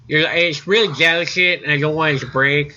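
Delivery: mock the annoying player pleading about his sword; a lightly voiced whiny young gamer; whiny nerd voice. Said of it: "mocking the player".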